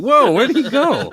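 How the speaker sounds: high, loud startled exclamation; mock astonishment. Husband losing sight of the chef, mock astonishment. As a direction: exclaim in hammed-up surprise.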